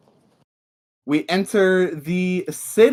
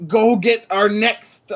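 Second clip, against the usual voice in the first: slow captain voice; 2 semitones higher than usual. Acted. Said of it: "And he says".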